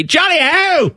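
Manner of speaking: high mock English cry; mock English catchphrase. Host teases the English writer about beans, mock English cry. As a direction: call it out as a hammed-up English cheer. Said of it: "and say".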